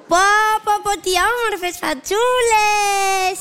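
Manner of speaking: slow, stretched-out cooing; drawn-out admiration. Acted. Admiring children's faces through the telescope, drawn-out wonder. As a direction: draw out every word in admiration.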